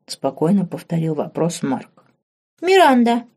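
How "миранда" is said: put-on high, loud childish call; much higher and louder girl's shout; little girl crying out. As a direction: call out the name like a frightened girl. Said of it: "выкрикнула девочка".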